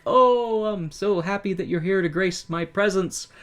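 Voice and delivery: high, lightly voiced gushing host; fawning owner. Owner fawns over Sammy, lightly voiced high gush. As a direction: fawn over the star.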